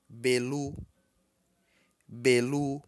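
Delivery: "Belu" projected firmly on a high tone. Shown as a demonstration. Teacher models November for students, high tone. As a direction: say "Belu" high on both syllables. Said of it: "Em tom alto".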